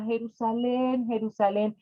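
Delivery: name the beloved city gently; tender, loving naming. Acted. Jesus tenderly names his beloved city. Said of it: "de una forma muy cariñosa y muy amorosa".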